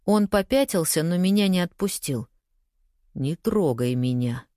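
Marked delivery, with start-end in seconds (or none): 3.1-4.5 low, slow growl; low menacing growl. Acted. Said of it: "прорычал он".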